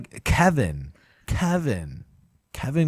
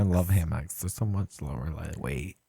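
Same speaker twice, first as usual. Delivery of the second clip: lower, softer mock lesbian voice; deadpan lesbian voice, lower; 8 semitones lower, 4 dB quieter than usual. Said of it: "that's my lesbian gay voice".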